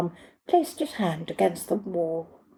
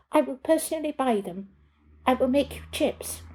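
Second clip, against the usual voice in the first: desperate pleading; 7 semitones higher than usual. Acted. Pleading to get past.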